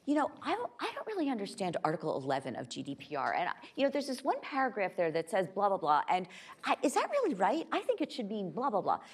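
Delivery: lightly voiced engineer puzzling over a regulation; earnest engineers. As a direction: quote a keen engineer raising a technical quibble. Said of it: "Engineers would come up to me and say".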